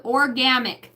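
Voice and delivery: 1 laughing. Real, not acted.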